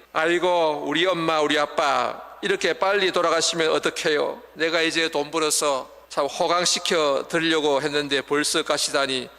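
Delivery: a touch of mock lament for mother and father; hammed-up grief that settles back toward plain talk; imitating a wailing child. Children whose parent has died, mock wailing lament. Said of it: "참 통곡하며 웁니다".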